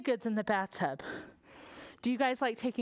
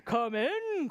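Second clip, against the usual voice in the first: king. Acted. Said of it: "cried the king".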